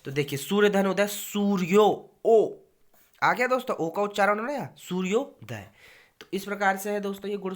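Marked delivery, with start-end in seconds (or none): 1.1-2.5 सूर्यो with a long sustained ओ; drawn-out vowel. Shown as a demonstration. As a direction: stretch the ओ in सूर्यो long and slow. Teacher stretches the vowel.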